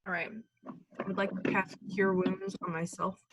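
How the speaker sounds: talking while eating chips; crunching chips. Real, not acted. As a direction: mouth full of chips. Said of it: "Sorry, I'm eating chips".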